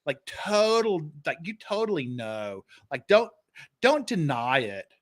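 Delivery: lightly hammed Valley Girl accent. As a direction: tease in Valley Girl talk. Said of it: "only the Valley Girls talk like that".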